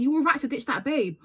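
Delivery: high, loud mocking retelling. Shown as a demonstration. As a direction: pitch it up and mock the line. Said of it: "Yeah, that's what".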